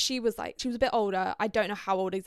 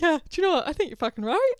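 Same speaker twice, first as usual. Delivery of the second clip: higher, louder, sassy yes; cheering on the ex-wife, higher and louder; emphatic agreement; 7 semitones higher, 7 dB louder, faster than usual. Retold or imitated. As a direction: back her up with girl-power energy.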